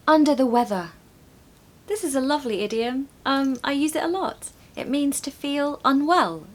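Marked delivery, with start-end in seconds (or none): 0.1-0.9 louder, higher teacher model of "under the weather"; emphatic model. Shown as a demonstration. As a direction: project it clearly for the class. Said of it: "Number four".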